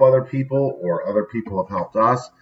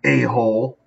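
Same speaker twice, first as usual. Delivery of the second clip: put-on kid calling out; slower than usual. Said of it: "all of a sudden I hear".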